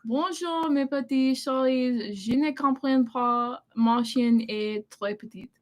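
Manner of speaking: careful attempt at a French accent; French accent, read back as a friendly contest. Shown as a demonstration. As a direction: try out your best French accent. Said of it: "who has the better accent".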